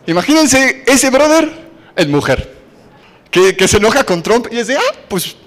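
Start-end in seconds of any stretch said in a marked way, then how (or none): 4.8-5.4 mock dictator. Dictator voiced angrily.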